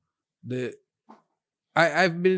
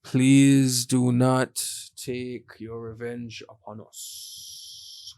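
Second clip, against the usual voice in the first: mock pleading; 3 semitones lower, much slower than usual.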